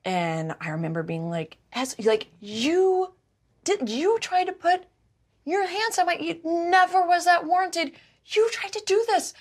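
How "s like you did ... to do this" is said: higher, tense half-yell kept under the breath; yell whisper. Retold or imitated. Confronting S in the hall, a hushed furious yell-whisper. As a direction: hiss it furiously but keep it hushed. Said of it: "I was, like, yell whispering".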